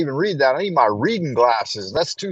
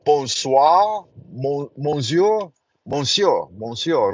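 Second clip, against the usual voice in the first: French phrase; slower than usual. Shown as a demonstration. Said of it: "And I can say".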